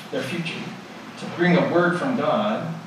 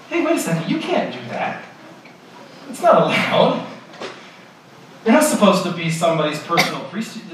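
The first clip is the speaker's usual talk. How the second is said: much higher, louder protest; indignant objection; 3 semitones higher, 3 dB louder than usual. Acted. Spies rebuking the hired priest, high indignant protest. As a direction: stop him cold with a shocked objection.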